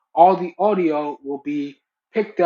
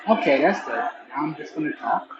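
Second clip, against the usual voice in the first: earbud mic over crowd noise; thin Bluetooth earbud pickup with crowd behind; bluetooth headset mic. Real, not acted. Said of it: "here's what the microphones sound like in a simulated crowded environment".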